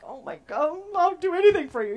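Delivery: mock-swooning devotion, rising in pitch; endeared gushing. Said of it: "instantly endeared to them".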